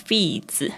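feeds ending in a ds sound like Chinese 子; final ds like zi. Shown as a demonstration. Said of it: "D S的声音有点像是儿子的子". (feeds 结尾 ds 读得像 子)

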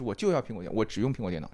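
scammer's tone. Retold or imitated. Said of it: "他那个骗子的语气就是".

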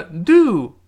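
"do" said loud and strong; emphatic loud "do"; stress on do. Shown as a demonstration. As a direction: hit the word "do" hard. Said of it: "那个do重读".

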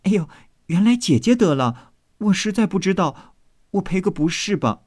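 high-pitched teasing maid; playful apology. Acted. Maid apologizing to elder sister, high and playful. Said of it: "秋文笑道".

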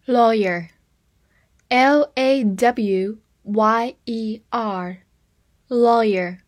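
lawyer, spelled L A W Y E R, letters slow and clear; slow spelled-out word. Shown as a demonstration. Teacher spells lawyer for the class, slow and careful. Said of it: "Lawyer这个词是由law这个词来的".

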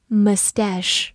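"mustache" as muh-STASH, stress on the second syllable; third pronunciation variant. Shown as a demonstration. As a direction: say "mustache" with a weak first syllable, then STASH. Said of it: "它有三种发音都是对的".

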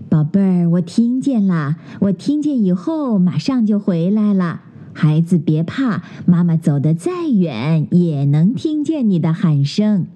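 mother bear soothes her scared cub; reassuring mother. Acted. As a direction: comfort the frightened cub.

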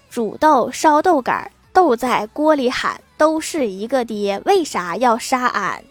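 slow, mock-solemn verse reading; poem recital. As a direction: recite it slowly like a classical poem, tongue in cheek. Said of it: "七步诗白话文版".

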